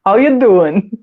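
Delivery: playful mock pickup line, cut by a laugh; flirty come-on. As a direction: sweet-talk her like a smooth charmer. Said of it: "He'd be busy flirting".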